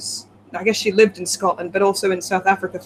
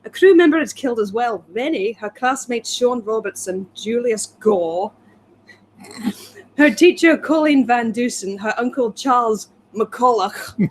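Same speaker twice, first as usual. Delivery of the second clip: put-on Scottish accent. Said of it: "My accent's terrible".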